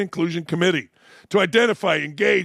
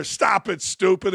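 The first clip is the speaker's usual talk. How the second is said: put-on old schoolyard taunt; 3 semitones higher than usual. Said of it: "as we used to say".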